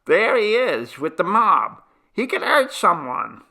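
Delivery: high, loud warning call; alarmed warning. A narrator's reading. Old man warning companions of the mob, loud alarm.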